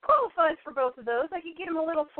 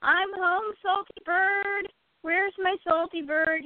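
calling out; 6 semitones higher, slower than usual. Retold or imitated. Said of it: "calling down the stairs as I was coming down".

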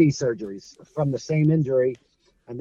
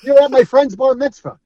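higher and louder, gushing with starstruck excitement; thrilled adult fans; 9 semitones higher, 9 dB louder than usual. Retold or imitated. Bearded adult fans greet Blackjack, loud and overjoyed. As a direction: imitate grown men gushing like they won the lotto. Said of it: "you think they won lotto".

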